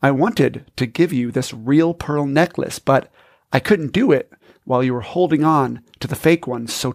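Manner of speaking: gently explain, like a dad giving a gift; lovingly. Acted. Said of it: "lovingly puts the real pearls".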